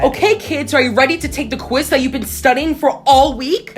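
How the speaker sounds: teacher. Retold or imitated. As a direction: imitate a teacher addressing the class. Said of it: "my teacher said".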